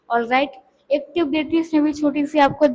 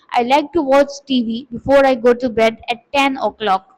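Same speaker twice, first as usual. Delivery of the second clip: slow, clear read-aloud of a paragraph; slow classroom reading of a daily routine; slow model reading; much slower than usual. Shown as a demonstration. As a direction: read it slowly like a teacher modelling. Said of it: "तो मैंने पढ़ लिया".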